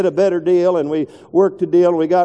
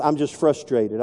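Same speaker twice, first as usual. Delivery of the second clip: lower, softer, weary frustrated sigh of a line; 4 semitones lower, 6 dB quieter than usual. Retold or imitated. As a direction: complain wearily under your breath. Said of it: "my key word that just came out".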